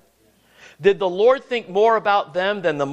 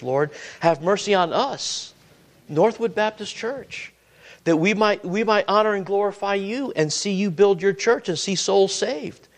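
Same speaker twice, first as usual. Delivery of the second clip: pleading prayer. Acted. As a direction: ask the Lord gently for mercy. Voices a prayer for the church.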